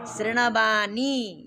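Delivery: slow शृणवाणी with long vowels and curled-tongue ण; careful retroflex शृणवाणी. Shown as a demonstration. Teacher models what must be said, slow careful शृणवाणी. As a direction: draw out शृणवाणी syllable by syllable. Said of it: "तो क्या बोलना है?".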